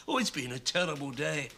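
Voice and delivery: mock-quavering quote of an upset man. Playwright quoting the distraught young director, quavering. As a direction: lightly imitate a wobbly, distressed caller. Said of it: "He said in a quavering voice".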